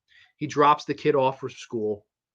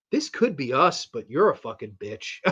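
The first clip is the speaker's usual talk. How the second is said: laughing punchline. Retold or imitated.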